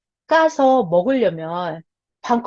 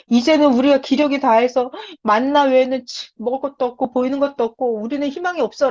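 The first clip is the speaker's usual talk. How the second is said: whining complaint; 4 semitones higher than usual. Retold or imitated. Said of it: "멍청한 소리를 하는 거예요".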